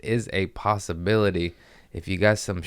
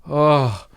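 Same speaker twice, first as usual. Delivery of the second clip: higher, louder "oh" of pain; acted pained groan; 7 semitones higher, 5 dB louder than usual. Patient hears he needs more Novocaine, acted pained groan. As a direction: replay a helpless groan in the chair.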